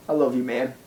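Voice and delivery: tearful. Acted. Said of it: "I'm actually crying a little".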